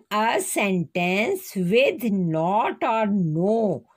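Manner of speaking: slow, word by word, for writing down; spaced-out classroom dictation. Shown as a demonstration. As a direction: dictate it slowly so the class can copy. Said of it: "Once again".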